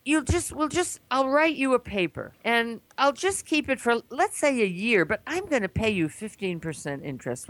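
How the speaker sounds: high-pitched, breezy debtor's promise; retold smooth reassurance. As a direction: talk a friend round, voice lifted high. Voices the debtor's glib reassurance.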